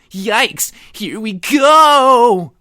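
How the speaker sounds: high, loud, stretched-out panicked shout; frantic exclaim. Acted. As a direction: yell it as you bolt for the bathroom. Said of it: "Luke exclaimed".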